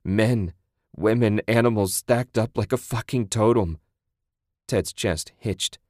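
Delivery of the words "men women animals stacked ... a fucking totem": mildly distraught, rising outburst; sobbing. Acted. Man recalling the piled dead, close to sobbing. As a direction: push the words out as if near sobbing. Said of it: "he sobbed".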